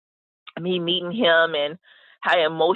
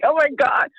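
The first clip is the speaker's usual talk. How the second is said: retold nervousness; 8 semitones higher, 3 dB louder than usual. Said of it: "I was so nervous".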